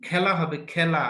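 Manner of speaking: slow খেলা, said "khaela" with the vowel of "cat"; খেলা as "khae-la", slowly; open æ vowel. Shown as a demonstration. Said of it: "খজাফলা আকার লয়াকার খেলা".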